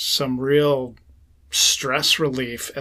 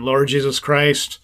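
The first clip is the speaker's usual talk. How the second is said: slow breath prayer. Shown as a demonstration. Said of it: "Breathe in".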